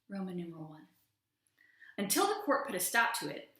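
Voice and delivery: hammed-up courtroom drama read aloud; dramatic reading. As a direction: thunder through the dissent like a stage monologue. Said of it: "a special dramatic reading".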